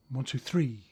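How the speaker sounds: one two three whispered to himself; whispered count. Shown as a demonstration. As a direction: think the rhythm under your breath. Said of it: "So I think".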